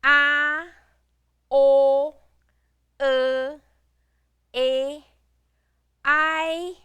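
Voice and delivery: each final from "A" to "er" held long on a high, level tone; teacher's model finals "A" to "er", clearly separated and held; demonstrating finals. Shown as a demonstration. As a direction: chant "A, o, e" through "er" as isolated, sustained sounds. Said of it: "we do have the finals".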